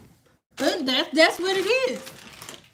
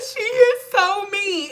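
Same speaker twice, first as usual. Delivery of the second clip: slow mock whine; 4 semitones higher, much slower than usual. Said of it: "and then the next minute".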